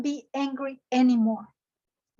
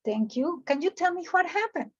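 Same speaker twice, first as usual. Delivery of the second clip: peaceful; 3 semitones higher, faster than usual. Acted. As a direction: ask calmly to defuse anger. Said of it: "asking me peaceful".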